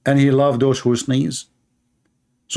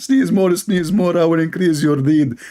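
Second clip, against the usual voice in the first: lightly voiced giddy god; 3 semitones higher than usual. Voicing Allah rewarding sneezes.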